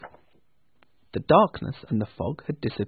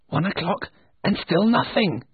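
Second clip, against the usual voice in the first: joyful; 6 semitones higher than usual. Acted. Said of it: "Scrooge said joyfully".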